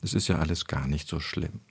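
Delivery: soft, low, quietly playing it down; soothing understatement. Expert voicing a listener's impression of the chancellor, soothingly. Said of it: "Der Hörer hat eher so den Eindruck".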